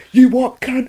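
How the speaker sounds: high, loud yell of a heckler; imitowany krzyk. Retold or imitated. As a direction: yell it out as an aggressive stranger's challenge. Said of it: "he just yells out".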